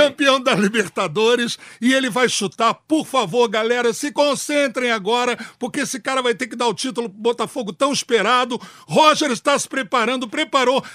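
radio play-by-play. Pretend. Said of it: "narrador por um dia".

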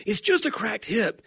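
high, dismissive Michael voice; Michael Scott impression. Podcaster retelling The Office, high dismissive Michael. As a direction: toss it off like a callous boss. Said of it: "And he goes".

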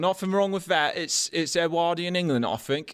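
a hint of a surly cook; lightly voiced. The cook defending himself to the hosts, mildly indignant. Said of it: "I'm Liam".

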